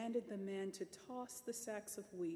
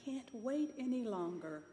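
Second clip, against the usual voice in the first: impatient, rising to a loud, high cry; lady can't wait for her gift; eager cry; 4 semitones higher, 7 dB louder than usual. Acted. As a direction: build from eager to a loud demand. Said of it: "she cried".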